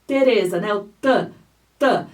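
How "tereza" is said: Tereza with a crisp, clean T and no ch sound; clean English T. Shown as a demonstration. Fonoaudióloga mostrando o T limpo em Tereza. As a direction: say Tereza with a clean tongue-tip T. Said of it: "vou até usar o meu nome como exemplo".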